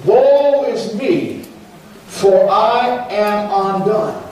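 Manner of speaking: slow, drawn-out lament; anguished cry. Retold or imitated. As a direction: cry it out slowly as if undone. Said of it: "he cried".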